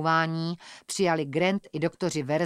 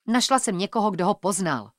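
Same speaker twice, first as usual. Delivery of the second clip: blurted out; 2 semitones higher, 3 dB louder than usual. Acted. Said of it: "vyhrkla jsem".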